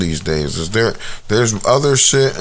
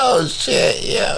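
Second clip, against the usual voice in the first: squealing laugh into "oh, shit"; high laughing fit; 7 semitones higher, slower than usual. Real, not acted. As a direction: lose it laughing. Laughs at own fear.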